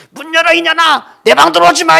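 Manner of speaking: 아주 높고 크게 천천히 악쓰기; 분노로 목청껏 내지르기. Retold or imitated. 엄마와 딸의 고함 싸움. (방문 사이로 서로 악쓰는 모녀)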